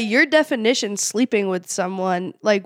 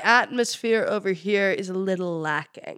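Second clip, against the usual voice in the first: imitated lordly British accent; British accent attempt; 3 dB quieter than usual. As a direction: copy the coach's British lord accent. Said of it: "you can all try".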